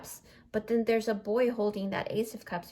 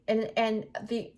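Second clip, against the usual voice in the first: burp catching the words; talking through a burp. Real, not acted. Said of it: "I'm, like, burping".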